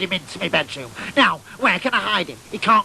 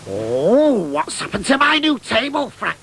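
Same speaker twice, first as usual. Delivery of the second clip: disbelief; 2 semitones higher than usual. Retold or imitated. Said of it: "she says in disbelief".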